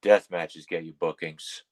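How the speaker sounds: low, slow veteran's pronouncement; Masada. Retold or imitated. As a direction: drop the pitch and spell it out slowly. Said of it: "he was looking at me going".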